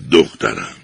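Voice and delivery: sorrowful. A narrator's reading. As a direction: sadly break the news. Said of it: "با اندوه سر تکان داد و گفت".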